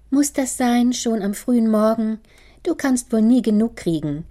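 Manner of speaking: irritated daughter snapping at her father over breakfast. Acted. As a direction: snap back at him irritably. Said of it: "fuhr ihn seine Tochter Rita an".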